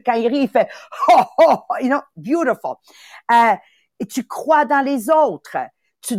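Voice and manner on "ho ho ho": mock hearty laugh; hammed-up laugh of a friend; imitating a laugh. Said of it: "il a le rire contagieux". (imitation d'un rire joyeux)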